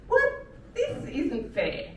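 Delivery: slow, outraged whine; slow mock complaint. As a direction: drag it out unfairly. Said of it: "I'm like".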